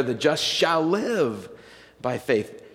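slow, with the weight landing on live; slow down and press live; stress on live. Shown as a demonstration. Pastor repeating the Galatians emphasis, slow stress on live. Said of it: "So the emphasis there".

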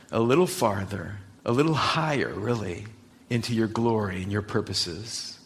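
prayer voice. Acted. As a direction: pray it gently for the congregation. Pastor opens with prayer.

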